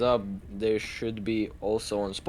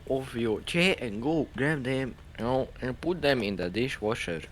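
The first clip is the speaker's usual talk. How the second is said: put-on Asian accent; 2 semitones higher than usual. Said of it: "Why did I do an Asian accent?".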